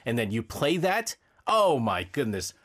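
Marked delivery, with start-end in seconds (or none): 1.5-2.5 low, slow, drawn-out dismay; exasperated groan. Real, not acted. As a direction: sink into disbelief. Reacting to the bad cover.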